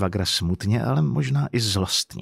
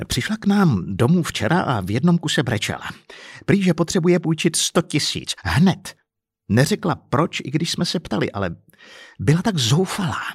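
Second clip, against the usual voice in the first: higher-pitched, worked-up complaint; exasperated husband reporting a grievance; agitated account; 5 semitones higher than usual. Acted. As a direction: tell it upset, with swooping emphasis. Upset man tells police the story.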